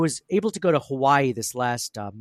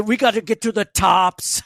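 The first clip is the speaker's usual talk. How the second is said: higher, slow and loud bad Arnold accent; Schwarzenegger impression; 8 semitones higher, 5 dB louder than usual. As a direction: stretch it out like a clumsy Austrian action hero. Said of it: "Arnold Schwarzenegger now".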